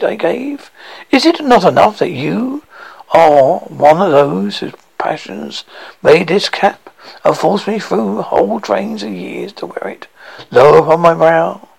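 a hint of an offended spirit; stern ghost voice. Ghost rebukes Scrooge.

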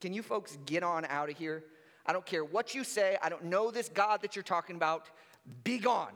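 low, offhand brush-off; casual dismissive Pharaoh. Retold or imitated. Preacher paraphrasing Pharaoh waving Moses away, low and offhand. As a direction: shoo them away like a nuisance. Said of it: "he's just, like, straight up like".

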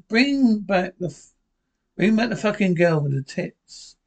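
cheeky ventriloquist dummy voice. Acted. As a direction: heckle like a rude puppet. Ventriloquist dummy heckles audience.

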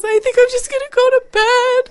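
high, loud wailing mock sob; hammed-up weepy mother; imitating mom crying. Mom giving up for the night, high wailing sob. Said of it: "she goes".

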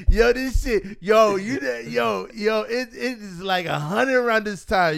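put-on high, drawn-out comic Mexican accent; mock Mexican accent, slow and high; Mexican driver accent. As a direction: imitate a Mexican Uber driver warning his passengers. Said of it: "the Uber driver Mexican dude".

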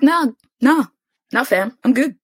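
high-pitched, casual brush-off in a retelling; mock polite refusal. Retold woman breezily declining an offer.

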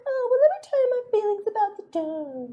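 very high, put-on wifely voice; mock wife's reply. Imitating a wife answering her husband in bed, high mock pillow talk. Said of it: "And she's like".

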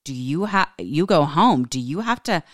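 rising alarm in a retold quote; freaked-out retelling. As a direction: imitate a man getting worked up and alarmed. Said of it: "He got really freaked out".

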